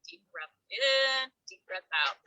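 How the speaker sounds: slow drawn in breaths; imitating deep breathing. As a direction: coach the breath slowly. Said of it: "and then he said".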